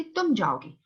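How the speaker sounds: तुम emphasised, falling after it; तुम singled out from the phrase; stress on तुम. Shown as a demonstration. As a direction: put the weight on तुम. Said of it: "मैं stress दे रही हूँ".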